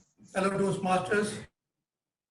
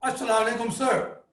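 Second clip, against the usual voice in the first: bright, crisp, a touch louder; crisp loud greeting; 3 semitones higher than usual. Retold or imitated. Caller greeting the sleepy man in a crisp, loud voice. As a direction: snap it out crisply like an eager caller. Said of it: "in a very crisp, loud voice".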